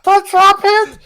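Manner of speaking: very high, loud put-on minion screech; mock-frantic henchman scream; hammed-up minion. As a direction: shriek like a panicking servant of an evil master.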